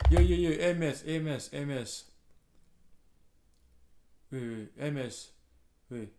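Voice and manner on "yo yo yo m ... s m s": loud excited yo yo yo call; hyped greeting. Real, not acted. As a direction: shout it out like greeting a buddy.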